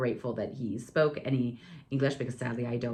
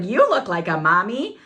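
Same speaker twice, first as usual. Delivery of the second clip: put-on child voice; 4 semitones higher, 7 dB louder than usual. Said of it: "he's like".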